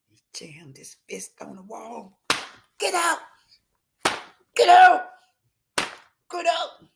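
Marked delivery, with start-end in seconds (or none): 2.8-6.9 angry shout. A narrator's reading. Harry throwing Melinda out.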